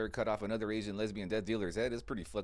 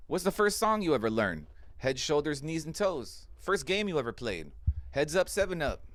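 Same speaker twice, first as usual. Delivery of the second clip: shouting rant; 4 semitones higher than usual. Real, not acted. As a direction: build to a yelling crescendo.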